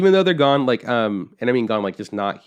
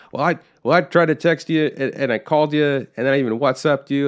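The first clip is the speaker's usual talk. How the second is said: imitating a flustered father, a bit higher and louder; defensive dad; 4 semitones higher, 3 dB louder than usual. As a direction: lay out every excuse, flustered.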